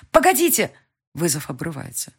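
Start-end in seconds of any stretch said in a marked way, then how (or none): 0.1-0.7 higher, louder plea; desperate cry. A narrator's reading. Heroine crying out to the dispatcher, desperate. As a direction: cry out to stop the hang-up.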